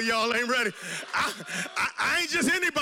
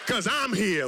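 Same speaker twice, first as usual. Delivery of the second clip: voice of God; 3 semitones lower, slower than usual. Retold or imitated. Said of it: "And God says".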